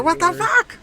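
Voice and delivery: high squeaky what the fuck; mock disbelief. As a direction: act stunned at the stats. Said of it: "I'm like".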